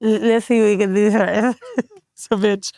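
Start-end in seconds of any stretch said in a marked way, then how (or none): 0.0-1.5 imitating mangled speech through tears; tearful garble. Crying girlfriend told to get in the car, garbled mock-tearful reply. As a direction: stumble into the words with a mouth that won't cooperate. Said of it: "I'm screaming and crying".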